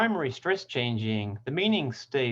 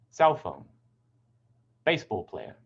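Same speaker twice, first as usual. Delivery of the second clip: "Cell phone, baseball player" with CELL and BASE stressed; "Cell phone, baseball player" as compounds, front-stressed; stress on first word; 3 semitones lower than usual. Shown as a demonstration. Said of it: "primary stress".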